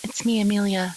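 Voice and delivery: calling out. Acted. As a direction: call out to see who is home. Character calls out for Ren on entering.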